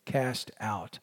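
"no, never" drawn out slowly, each word weighted; slow emphasis. Shown as a demonstration. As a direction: lean slowly into the double no. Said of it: "this double no".

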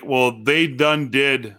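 slow, lightly hammed small-town Illinois drawl; imitating a small-town Illinois drawl; hometown drawl. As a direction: mimic the hometown twang, slowly. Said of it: "But who talks like that?".

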